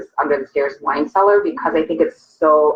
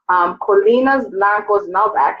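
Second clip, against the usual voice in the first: slow, careful Argentine Spanish accent on the wine name; 3 semitones higher, slower than usual. Shown as a demonstration. Hostess naming the wine for viewers, in an Argentine accent. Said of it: "I tried to use my best Argentina accent".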